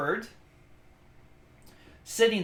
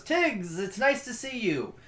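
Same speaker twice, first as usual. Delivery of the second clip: sweet greeting; 7 semitones higher than usual. Acted. Character switches to greeting Tiggs.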